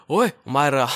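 loud, rough thug call; rough gang talk. Retold or imitated. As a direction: bark it like a street punk. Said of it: "going around like".

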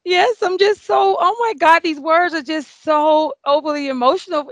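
a hint of high, teary voice; lightly voiced choked-up reply; teary and emotional. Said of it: "I'm, like, crying".

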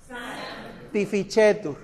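"Sanctificetur" drawn out slowly, sanc-ti-fi-che-tur; slow model. Shown as a demonstration. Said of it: "Díganla". ("Sanctificetur" lento, sílaba por sílaba)

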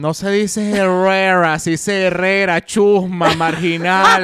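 loud, deliberate mock reprimand; scolding character. Host parodying the pronunciation scold for co-host, mock scolding. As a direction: correct them with comic outrage.

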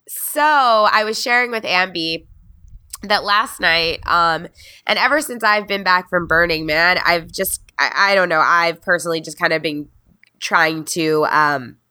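stuffed nose, real cold; talking through a blocked nose; nasal voice. Real, not acted. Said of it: "sorry for my, my nasally thing".

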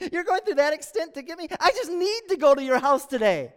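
cracking up. Acted. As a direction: crack up on the name, then press on amused. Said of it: "I can just imagine Jesus cracking up".

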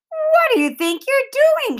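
put-on high, slow furious boy's shout; Jimmy yelling. A narrator's reading. Boy yells at Sheila over her credit line, high and angry. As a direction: yell it at Sheila, outraged. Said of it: "he yelled".

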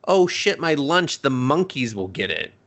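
put-on high, lightly panicked girl; mock panicked idiot. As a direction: remember the lunch in alarm. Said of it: "She's like".

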